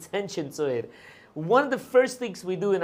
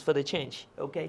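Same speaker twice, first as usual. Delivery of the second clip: light, accidental Russian accent; 4 semitones lower, 4 dB quieter than usual. Real, not acted. Host asking chat for nice comments, slipping into a Russian accent. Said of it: "did it in a Russian accent".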